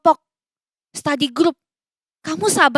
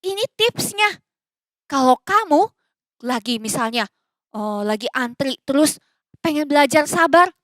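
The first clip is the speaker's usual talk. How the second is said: ordinary talk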